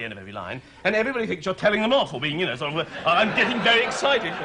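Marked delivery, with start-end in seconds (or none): 3.1-4.3 English excited accent. Shown as a demonstration. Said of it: "if you do it with an English accent".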